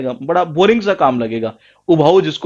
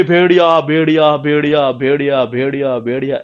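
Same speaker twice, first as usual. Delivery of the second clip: mock wolf cry; 2 semitones lower than usual. Shepherd calling to the villagers, mock cry that fades. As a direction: imitate a shepherd's alarm, letting it fade. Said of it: "ऐसे चिल्लाता था जी वो".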